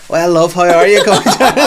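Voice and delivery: put-on high, loud cheery greeting from the old dears; mock friendly old women. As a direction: imitate old women's over-friendly hello. Old women greet him sweetly.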